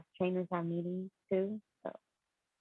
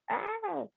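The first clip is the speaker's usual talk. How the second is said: high, quick strangled scream; frustrated mock scream; 5 dB quieter than usual. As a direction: let out a short frustrated cry. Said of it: "It made me wanna scream".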